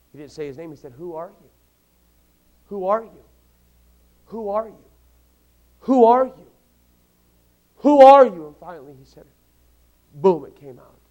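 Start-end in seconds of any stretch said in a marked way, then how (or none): 0.9-8.5 starts hushed, builds to a loud insistent demand; building demand. Retold or imitated. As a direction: press harder each time until it bursts out. God pressing Jacob, building.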